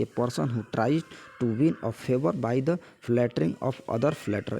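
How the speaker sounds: slow word-by-word reading of a definition; slow dictation. Acted. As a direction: read it out slowly so students can copy it down.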